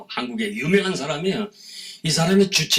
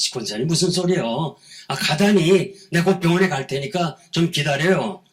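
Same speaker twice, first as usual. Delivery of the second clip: higher, mildly urgent retold protest; 4 semitones higher than usual. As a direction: talk her out of it, voice lifted. Pastor protests at a farewell call. (만류하듯 높아진 목소리)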